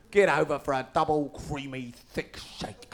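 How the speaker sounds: whispered, sultry advert read; breathy advert whisper. Pretend. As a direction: purr it like a sexy ad.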